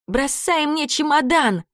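ordinary delivery, nothing marked

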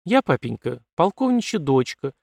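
proud, rising to a high finish. Acted. Colonel's daughter proudly boasts to her father. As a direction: say it hands on hips. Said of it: "гордо подбоченившись".

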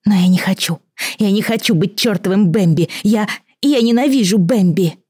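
high yell that cracks toward a squeal. A narrator's reading. Girl with horns screaming at her friend, high and cracking. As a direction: shout it, voice breaking upward. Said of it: "вдруг заорала, срываясь на визг".

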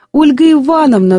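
high excited cry of recognition; squealed name. A narrator's reading. Woman recognises her old friend's name, high squeal. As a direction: shriek the name in joyful shock. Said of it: "взвизгнула она".

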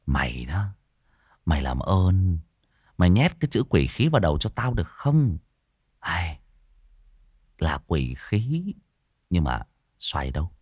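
lightly voiced tired young man; exasperated Đen. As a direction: sigh it out in a low voice. Đen scolds, Tý answers.

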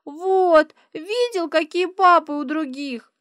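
put-on high, loud little girl guilt-tripping; squeaky child's reproach; needling child. A narrator's reading. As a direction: shame him like a pushy little girl. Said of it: "Аришка давит на совесть Адама".

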